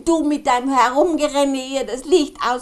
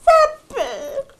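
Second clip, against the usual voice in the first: calling out; 12 semitones higher, 3 dB louder than usual. Acted. Kasperl calling out for Seppel.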